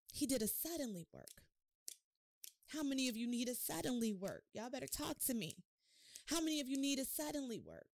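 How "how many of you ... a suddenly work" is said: rousing call. Real, not acted. Preacher calls out to congregation demanding a response, fired up. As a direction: stir them up, asking for a response.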